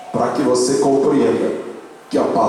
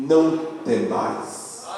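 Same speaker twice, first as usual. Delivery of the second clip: slow, soft drop on the prophet's words; hushed reassurance; 2 semitones higher, 6 dB quieter, slower than usual. Acted. Pastor reads the Lord's message to Judah, slow and hushed. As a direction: let it fall soft and unhurried. Climax of prophecy read aloud.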